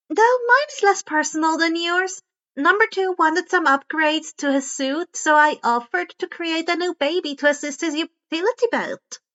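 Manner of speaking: lightly voiced Hatsume. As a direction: raise the voice a bit for the chatty inventor. Hatsume's voice in narration.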